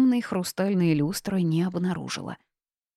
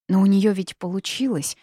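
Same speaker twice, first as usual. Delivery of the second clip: stunned; 3 semitones higher, 4 dB louder than usual. Acted. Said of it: "ошарашенно начала я".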